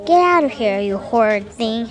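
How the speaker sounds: mild angry cry at the intruder; cried. Acted. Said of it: "she cried".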